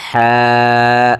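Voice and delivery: হ্যাঁ drawn from the throat, thin and long. Shown as a demonstration. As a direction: breathe হ্যাঁ thinly from the throat. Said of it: "চিকন করে পড়তে হবে". (কণ্ঠনালী থেকে চিকন হা)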